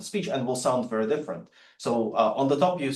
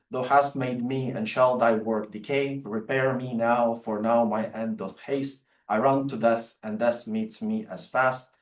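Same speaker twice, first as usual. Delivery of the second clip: poem recitation. Acted. Reads Donne sonnet aloud.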